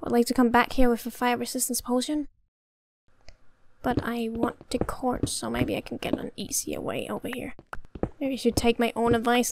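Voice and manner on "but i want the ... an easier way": whisper. Real, not acted. Sneaking whisper near danger.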